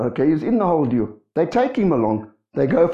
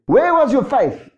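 higher, slow, emphatic mock scolding; retold rebuke; 9 semitones higher, 4 dB louder, slower than usual. The Lord turns on frightened disciples, acted rebuke. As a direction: ring out an acted rebuke, drawn out. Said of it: "He rebukes them".

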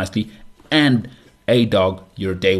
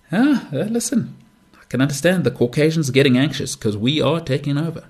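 high, nervous voice of an anxious white parent; mock anxious white parent; 6 semitones higher than usual. Imitating worried Caucasians, high and fretful. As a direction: play the panicky suburban parent. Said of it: "mock white parent".

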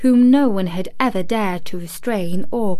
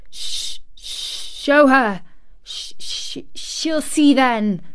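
stammering gasps then higher bursts; gasping between sobs; 5 semitones higher, slower than usual. A narrator's reading. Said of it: "he gasped out between two sobs".

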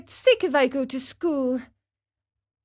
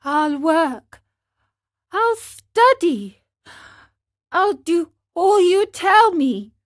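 put-on higher, louder boyish resolve; earnest promise; 6 semitones higher, 5 dB louder than usual. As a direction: promise it with all his heart. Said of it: "and said seriously".

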